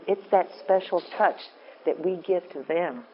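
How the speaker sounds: ordinary talk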